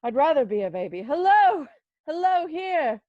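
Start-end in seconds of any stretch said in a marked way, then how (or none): 1.0-3.0 high, loud call to the street. Acted. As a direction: hail someone far off. Calling out the window.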